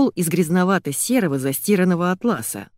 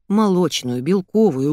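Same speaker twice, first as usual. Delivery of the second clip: usual speaking voice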